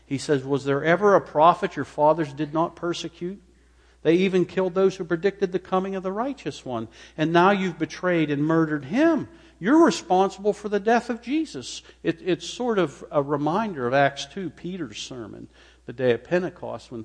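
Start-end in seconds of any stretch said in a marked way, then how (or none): 0.4-11.8 loud, high, accusing preacher's cry; fiery rebuke. Acted. Stephen accusing the council of murder, loud and fiery. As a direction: hurl the charge at them.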